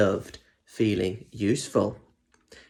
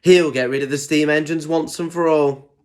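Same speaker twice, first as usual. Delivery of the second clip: boasting; 5 semitones higher, 4 dB louder than usual. Acted. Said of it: "he boasted".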